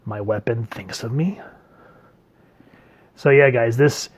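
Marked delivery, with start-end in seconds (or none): 0.0-1.4 soft, shell-shocked whisper; stunned whisper. Retold or imitated. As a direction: breathe the question out in disbelief. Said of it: "He's just like".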